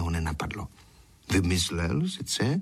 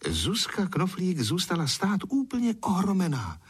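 usual speaking voice

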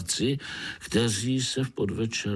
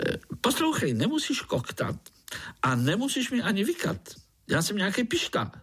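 higher, playful mosquito voice; sing-song jolly insect; chatty foreign mosquito; mosquito Pišta; 10 semitones higher, faster than usual. Acted.

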